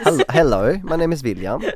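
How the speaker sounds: lightly Aussie self-introduction; a touch of Australian twang; Australian accent. Pretend. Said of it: "bits of Australian accent in there".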